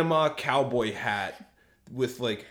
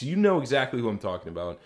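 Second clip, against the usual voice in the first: fast conspiratorial whisper; faster than usual. Real, not acted. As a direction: lean in and whisper it. Whispered aside about dad type.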